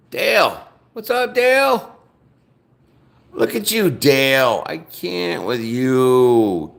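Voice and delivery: loud, exasperated calling out; loud mock scolding of a commenter; mock outrage. Real, not acted. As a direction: call him out, half laughing, half fed up. Calling out troll commenter Dale.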